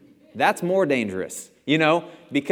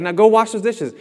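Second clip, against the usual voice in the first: high, louder motherly order; bossy mom; 10 semitones higher, 8 dB louder than usual. Retold or imitated. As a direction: order him back to the chores.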